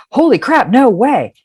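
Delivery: high, mock-astonished exclamation; hammed-up disbelief, pitched high; imagined amazed response. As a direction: act out the big reaction you expected. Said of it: "I thought her response would be something like".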